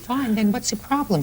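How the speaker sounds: high-pitched impatient challenge; exasperated. Real, not acted. Judge cutting short a tearful litigant, exasperated. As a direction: demand an answer, out of patience.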